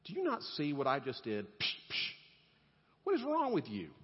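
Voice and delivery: hammed-up frustrated rant; exasperated God. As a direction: play an impatient God fed up with Elijah. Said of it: "if I'm God, I'm saying".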